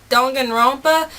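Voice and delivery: Danganronpa in her natural Southern twang; southern accent. Shown as a demonstration. Vlogger showing how her Southern accent says it. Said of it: "made my southern accent really pop".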